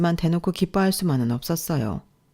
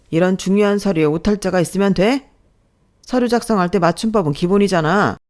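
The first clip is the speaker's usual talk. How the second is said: louder, stern telling-off; scolding boss; 2 semitones higher, 5 dB louder than usual. Acted. Boss to new employee over a typo, scolding. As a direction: scold a subordinate over sloppy work.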